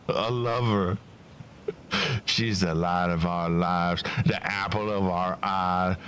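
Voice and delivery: lightly put-on Cockney bloke; amateur Cockney, building to a mild grumble; attempted Cockney accent. Bloke explaining what Babs means to them, rough Cockney attempt. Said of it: "how to do a Cockney accent".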